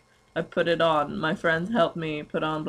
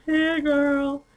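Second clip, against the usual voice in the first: put-on squealing valley girl; 9 semitones higher, much slower than usual. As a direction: squeal the greeting like a gushing friend. Mock valley girl greeting.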